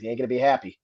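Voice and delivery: put-on light Boston accent; imitated Boston sergeant, understated; a hint of Boston accent; Top McGrath. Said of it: "sound exactly like someone from Massachusetts".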